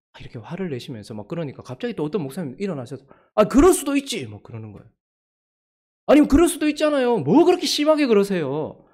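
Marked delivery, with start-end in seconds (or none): 3.3-4.3 high, loud retort, much higher; heated protest. Retold or imitated. A pastor jumps in to argue. 6.1-8.8 high, loud challenge that slows at the end; heated argument. Retold or imitated. Two pastors start a quarrel.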